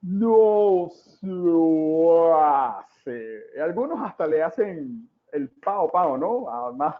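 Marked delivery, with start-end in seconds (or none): 0.0-3.4 father's yell. Retold or imitated. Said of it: "cuando el papá le grita".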